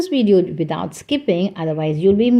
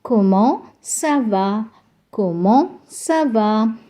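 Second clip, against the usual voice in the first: slow model phrase; slower than usual. Shown as a demonstration. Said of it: "repeat it with me".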